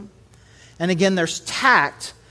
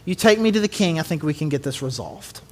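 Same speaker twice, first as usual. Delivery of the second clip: calm and tactful; 5 semitones lower than usual. Retold or imitated. Daniel calmly asking the guard to take him to the king. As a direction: settle the guard down gently. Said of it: "he comes up with wisdom and tact".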